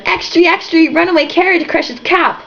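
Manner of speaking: high newsboy holler; hollered headline. Acted. Les hollering the headline at the couple, high newsboy call. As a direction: call it out like a newsie hawking papers. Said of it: "Les ran up to the couple and hollered".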